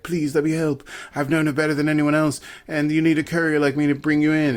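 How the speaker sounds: lightly acted, pleading lilt; mock plaintive plea. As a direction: plead a little, imitating an earnest suitor. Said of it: "his plaintive British space druid emotion".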